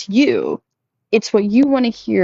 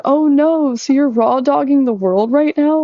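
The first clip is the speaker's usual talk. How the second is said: higher, playful fake concern; mock chatbot sympathy; 6 semitones higher than usual. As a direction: imitate the bot acting shocked for her. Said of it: "it literally said".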